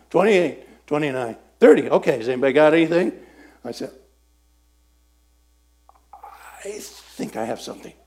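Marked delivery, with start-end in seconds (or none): 0.1-3.1 louder, brisk count; countdown call. Retold or imitated. Leader finishing the countdown. 6.1-7.9 hushed, unsure reply; nervously offering an answer; timid whisper. Retold or imitated.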